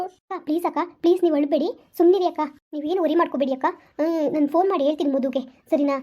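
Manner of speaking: calm her down gently over the phone; reassuring friend voice. Acted. Rashmi soothes crying sister.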